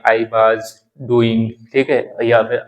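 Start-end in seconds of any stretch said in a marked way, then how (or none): 0.0-1.5 slow Indian-accented "was" as vaaz; Indian village accent. Shown as a demonstration. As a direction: demonstrate Indian English, "was" with long aa. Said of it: "कोई लोग was बोलते हैं". (भारतीय देहाती लहजे में "was" को वाज़)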